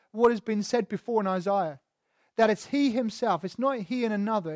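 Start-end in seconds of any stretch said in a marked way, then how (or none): 2.5-3.4 "he himself" set apart with weight on HE; firm emphasis on HE; stress on HE. Shown as a demonstration. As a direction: lean on "he" in "he himself". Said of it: "That's the emphasis".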